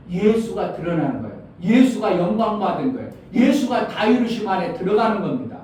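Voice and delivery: emphatic, rising sermon delivery; impassioned preaching. Real, not acted. Preacher telling the church who must be revealed, impassioned. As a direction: press the point on the congregation.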